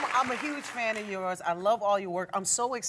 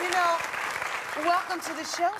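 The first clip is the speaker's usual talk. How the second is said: sexy voice; 6 semitones higher than usual. Pretend. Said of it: "you've got something really good going on in that voice".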